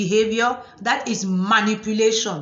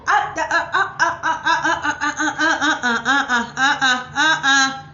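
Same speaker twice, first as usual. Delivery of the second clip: mock cackle at the bossy partner; hammed-up ha ha ha; mocking laugh; 4 semitones higher than usual. Mocking laughter after quote.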